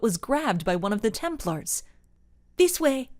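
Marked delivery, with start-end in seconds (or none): 2.6-3.1 high, loud call; yelled. A narrator's reading. Templar guiding the mom, yelling. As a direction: call the escape route. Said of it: "he yelled".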